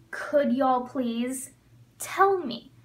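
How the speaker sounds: drawn out, with a pause before tell; slow teacher demo; slow model phrase. Shown as a demonstration. Teacher modeling a request for students, slow and clear. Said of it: "teacher modeling example command".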